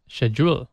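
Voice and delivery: "schedule" opening like "shed"; alternative pronunciation. Shown as a demonstration. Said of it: "Read it with a different emph".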